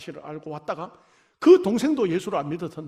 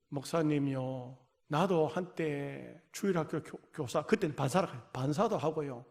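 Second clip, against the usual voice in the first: meek plea; 5 semitones lower, 6 dB quieter than usual. Retold or imitated. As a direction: quote her plea meekly and quietly. Mother's plea retold. (목사에게 교회에 다시 나가도 되는지 묻는 어머니의 조용하고 수줍은 간청)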